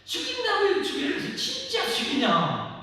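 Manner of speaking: high, loud mock disbelief; incredulous God. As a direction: shriek in mock disbelief to stop him. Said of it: "하면서 아브라함 말기잖아요".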